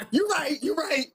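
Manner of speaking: giggling through the words, high; laughing. Real, not acted. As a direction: talk while cracking up. Laughing at host's phrasing.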